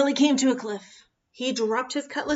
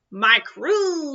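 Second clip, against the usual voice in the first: joyful call; 4 semitones higher, 5 dB louder than usual. Acted. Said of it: "he called".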